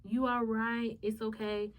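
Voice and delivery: drawn-out, gentle reassurance; calming. Retold or imitated. Best friend trying to calm me down, calming. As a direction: lightly imitate a friend soothing someone. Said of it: "trying to calm me down".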